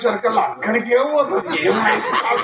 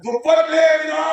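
slow, higher దుప్పట్లేవి రా in one breath; words run together; 4 semitones higher than usual. Shown as a demonstration. Man misquotes the mother, దుప్పట్లేవి రా joined and raised. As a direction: run దుప్పట్లేవి straight into a stretched రా. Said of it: "కాదు మా, కాదు".

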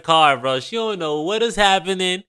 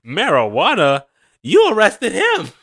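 mock outraged shout; 2 semitones higher, 6 dB louder than usual. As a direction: ham up her outrage. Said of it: "now when we bring up the marijuana".

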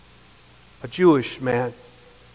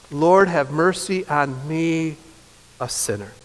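humble plea; 2 semitones lower, slower than usual. Acted. Preacher voices a penitent's prayer.

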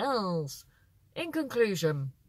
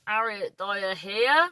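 Cornish accent; slower than usual. Shown as a demonstration. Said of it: "That's how they say it".

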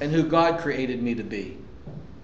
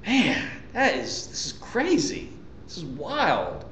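softer, slow amazed murmur; quiet wonder at the canyon; hushed awe; 6 dB quieter than usual. Retold or imitated. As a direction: marvel quietly at the view. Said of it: "never cease to look at that going".

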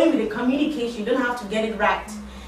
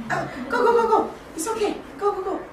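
much higher, laughing go go; excited urging; 10 semitones higher than usual. Real, not acted. Teacher urging students along in the whisper game, laughing and high. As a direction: cheer the players on, bubbling over.

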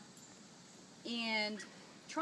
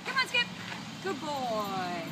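squeaky praising a dog; 4 semitones higher, slower than usual. Real, not acted. Calling the dog.

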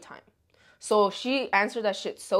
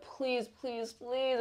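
imitated begging; 2 semitones higher, 10 dB quieter, much slower than usual. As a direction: beg quietly, mimicking a desperate boyfriend. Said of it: "begging me".

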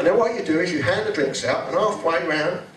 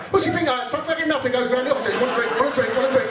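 high, indignant grumbling; hammed-up paranoid bloke; suspicious bloke; 6 semitones higher than usual. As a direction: mutter at a trick question. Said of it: "suspicious bloke's thoughts".

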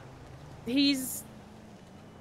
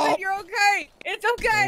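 frantic reassurance; 6 semitones higher than usual. Pretend. Frantically reassures the hurt man.

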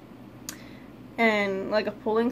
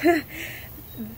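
awkward laugh; 4 semitones higher than usual. Real, not acted. Laugh after struggling to speak.

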